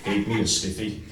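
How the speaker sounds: low, mock-whispered cartoon impression; Beavis and Butt-head. Whispering a rude aside to the boss, in mock cartoon voice. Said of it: "whispered to Big Pete in the style of Beavis and Butthead".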